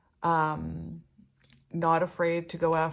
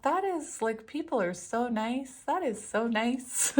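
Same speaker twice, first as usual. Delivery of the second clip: gushing delight; 5 semitones higher than usual. Retold or imitated. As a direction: coo it like you can't believe it. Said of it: "I'd be like".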